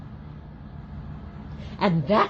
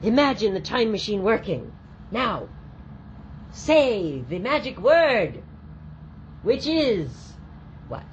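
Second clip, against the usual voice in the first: put-on kids party magician; 6 semitones higher than usual. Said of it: "And you're like".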